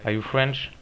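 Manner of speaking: broken English with a French accent; English question in a thick French accent; accent anglais approximatif. Real, not acted. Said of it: "mon accent anglais qui va tout péter". (accent français en anglais, tout pété)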